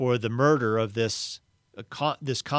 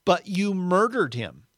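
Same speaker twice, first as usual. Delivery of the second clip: accusing ghost; 7 semitones higher, 3 dB louder than usual. Acted.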